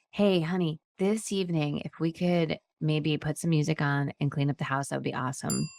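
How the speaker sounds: wife sweetly asks her husband to help tidy; sweet request. Shown as a demonstration. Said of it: "That's different, right?".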